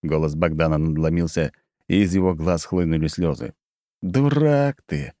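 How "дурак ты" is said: slow, bitter and heavy. A narrator's reading. Narrator pities Bogdan, bitter and slow. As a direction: drag it out with bitter pity. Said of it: "с горечью сказал я".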